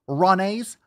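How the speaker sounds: high disbelieving question; incredulous. Real, not acted. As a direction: repeat the word in disbelief. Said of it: "Is that what you're calling these things?".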